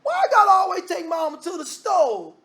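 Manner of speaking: high, shouted sibling whine; mock shout of a sulking sibling; whiny complaining sibling. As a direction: complain like a put-upon kid at full pitch. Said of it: "Sometimes people are like that".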